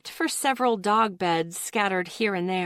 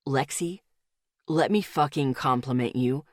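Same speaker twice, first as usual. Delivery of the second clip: firmer; 6 semitones lower than usual. A narrator's reading. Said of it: "His voice was growing harder".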